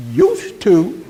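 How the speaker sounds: amused, incredulous echo; mocking laugh at "used to"; laughing retort. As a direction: toss it back with a laugh. Mocking her claim.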